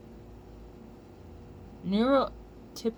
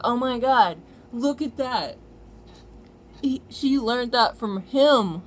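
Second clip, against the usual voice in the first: mock outrage; 3 semitones higher, 6 dB louder, slower than usual. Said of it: "And then they're like".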